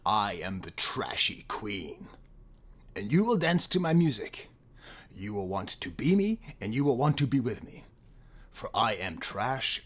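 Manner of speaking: a grand diva proclamation, dropping to a whisper at the end; a mock pop queen's manifesto; diva persona. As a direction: declaim like a trashy pop queen, then breathe the last line. Dramatic voicing of a pop singer's persona.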